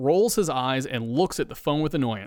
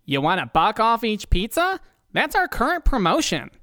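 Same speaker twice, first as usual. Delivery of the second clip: proudly; 8 semitones higher than usual. Acted. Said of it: "Hank responds proudly".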